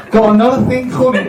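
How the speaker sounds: high, botched Scouse on the edge of laughter; hammed-up Liverpool accent.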